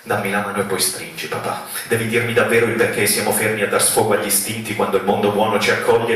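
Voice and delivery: rhythmic recital in long running phrases; spoken-word poem. Acted. Poet asking papà to take their hand, pressing recital. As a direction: recite it as a plea, pressing onward.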